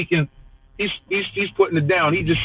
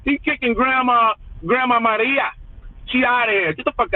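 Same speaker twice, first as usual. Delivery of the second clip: mock shout; 5 semitones higher than usual. Mocking grandma being deported.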